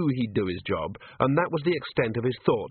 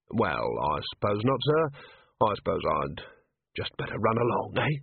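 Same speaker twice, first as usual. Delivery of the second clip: lightly voiced weary commander; 2 semitones lower than usual. Vimes voiced by narrator.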